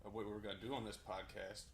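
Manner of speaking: winded from running; breathing hard between words. Real, not acted. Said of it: "I'm still out of breath".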